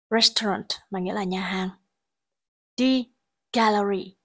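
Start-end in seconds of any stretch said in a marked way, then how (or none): 3.5-4.2 gallery with the first syllable stressed. Shown as a demonstration. Teacher showing word stress for students, first-syllable stress on gallery. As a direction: say "gallery" with the beat on GAL. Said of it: "có trọng âm rơi vào âm tiết thứ nhất".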